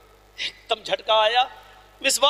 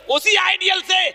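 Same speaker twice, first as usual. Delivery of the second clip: raised, higher climax; rising preaching shout; 5 semitones higher than usual. Acted. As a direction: build to a ringing peak. Climactic sermon build.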